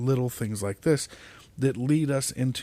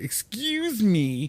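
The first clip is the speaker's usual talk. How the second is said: obnoxious, snotty, rude attitude, pitched up; 9 semitones higher than usual. Explaining how to ask people to let you through, showing a rude jerk attitude. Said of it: "attitude where you're like".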